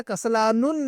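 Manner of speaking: کسلان said with an added -un ending; wrong tanween ending. Shown as a demonstration. Teacher shows students the forbidden reading, tanween ending. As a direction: sound a final "nun" on کسلان. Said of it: "ان پر تنوین نہیں پڑھتے ہیں".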